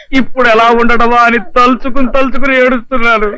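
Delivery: husband sobbing at the thought of separation; comic husband's tearful confession; crying. Acted. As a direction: weep as you speak. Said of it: "నువ్వెందుకు ఏడుస్తున్నావో చెప్పవే".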